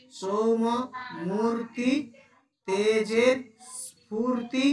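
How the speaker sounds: spaced poem words, each set apart; poem recitation. Shown as a demonstration. Teacher reciting poem words for syllable count, spaced. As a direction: recite word by word with pauses.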